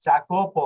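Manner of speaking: জাকোপ begun with a hard English j sound; J pronunciation. Shown as a demonstration. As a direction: say জাকোপ with j as in "jam". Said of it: "এখানে একটা উচ্চারণ আমি করেছি".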